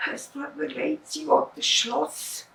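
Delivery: sorry and embarrassed; mildly sheepish fisherman; apologetic. Acted. Ashamed fisherman.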